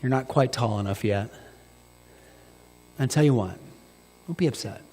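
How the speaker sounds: tender dad. Retold or imitated. Dad comforting son.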